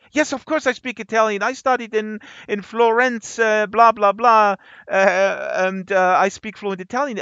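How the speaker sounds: imitating a suddenly thrilled professor; proud boast. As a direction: brag it with puffed-up eagerness.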